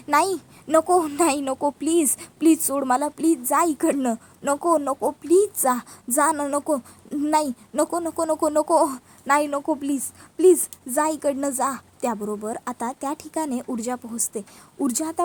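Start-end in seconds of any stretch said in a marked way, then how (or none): 0.1-11.7 mild acted panic, repeated pleas; crying out, pleading. Terrified Padma begging Vikrant to leave, mock cries. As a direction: beg frantically, voice slightly raised. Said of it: "Padma खाली बसते आणि जोरात ओरडते".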